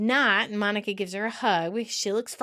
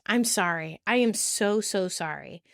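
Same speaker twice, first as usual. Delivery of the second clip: apologetic. Retold or imitated. Phoebe confessing a lost earring to Monica, contrite. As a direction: apologise earnestly, sinking at the end.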